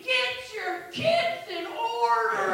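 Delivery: hammed-up grandma yelling; mock scream. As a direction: holler it slowly into the night.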